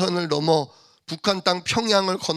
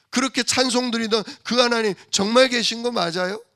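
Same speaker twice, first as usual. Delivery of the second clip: wounded church member pleading with the pastor, rising higher toward the end; hurt pleading; 5 semitones higher than usual. Retold or imitated. Preacher voicing a hurt believer asking the pastor, a lightly played plea. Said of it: "상처받은 성도들이 있잖아요".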